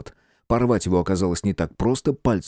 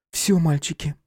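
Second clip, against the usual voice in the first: detached; 6 semitones higher than usual. Acted. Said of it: "безучастным голосом добавила Клёпка".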